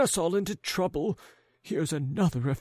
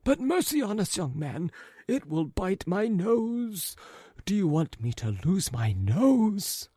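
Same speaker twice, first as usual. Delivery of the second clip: panicked Ivan; 9 semitones higher than usual. A narrator's reading. Ivan terrified the dog will bite his nose. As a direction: fret in a high panic.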